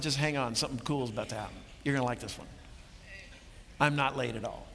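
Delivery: low, understated aside; wry reassurance. Retold or imitated. What Jesus could have told Mary, low wry reassurance. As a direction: reassure them with a knowing wink. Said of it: "a wink and a wry smile".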